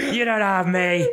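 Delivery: tag. Pretend. Continues the mock death-scene impression.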